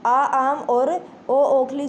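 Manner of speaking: slow, stretched 'आ' of आम and 'ओ' of ओखली; vowels with examples. Shown as a demonstration. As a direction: draw out आ and ओ before their example words. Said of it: "उसके बीच की ध्वनि". (आ और ओ को खींचकर, फिर आम, ओखली बोलें)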